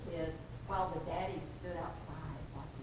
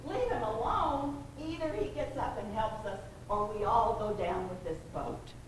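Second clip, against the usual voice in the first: "Leave him alone?" thrown back much louder and higher, outraged; indignant yell back; 3 semitones higher, 7 dB louder than usual. Retold or imitated. First disciple arguing back over the storm, outraged shout. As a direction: shout it back in disbelief, full force. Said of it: "the first guy yells back".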